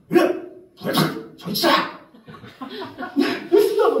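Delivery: short, high mock shouts with pauses between; cult leader's shout. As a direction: bellow like a fired-up cult preacher. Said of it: "엄청 그 목소리가 커요".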